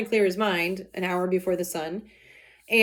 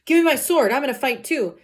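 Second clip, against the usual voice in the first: eager demand; 5 semitones higher, 4 dB louder than usual. Retold or imitated. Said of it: "So Capulet's like".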